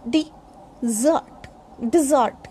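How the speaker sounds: dessert as di-ZURT, broken up then whole; model pronunciation. Shown as a demonstration. Teacher drilling dessert for learners, di-ZURT. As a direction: stress the second syllable of dessert. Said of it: "Again, I'll tell you".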